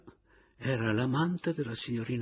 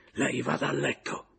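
higher, commanding dismissal; curt command; 6 semitones higher than usual. A narrator's reading. Papiano orders the Caporale to bed, commanding. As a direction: send her off to bed, no arguing. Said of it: "intimò la signorina Caporale".

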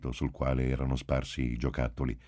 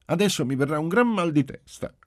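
high, loud dramatic complaint; stubborn little girl; 12 semitones higher, 5 dB louder than usual. A narrator's reading. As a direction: make a big show of a coming headache. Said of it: "con gesto caparbiamente femminile".

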